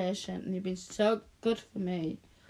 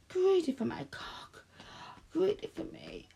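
whisper; 8 semitones higher than usual. Acted. Teasing partner in whisper.

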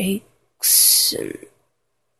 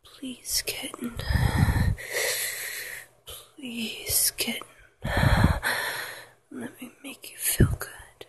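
whispered pleading; 2 semitones higher than usual. Acted. Lover begging into a partner's ear, whispered pleading. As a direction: beg in a whisper, breathing between phrases. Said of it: "pleading for you".

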